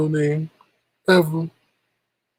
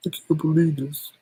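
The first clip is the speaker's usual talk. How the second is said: tearing up. Real, not acted. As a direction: voice catching, close to crying. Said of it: "I'm actually tearing up".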